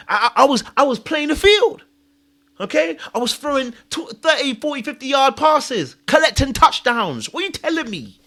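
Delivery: high-pitched indignant protest; angry at God. Retold or imitated. Speaker complaining to God about his situation, angry. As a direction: plead an outraged case, reenacted. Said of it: "I got angry at God".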